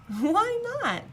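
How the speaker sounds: Little Miss Sunshine chuckles at the weeping king; chuckling. A narrator's reading. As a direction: ask it through a chuckle. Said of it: "she chuckled".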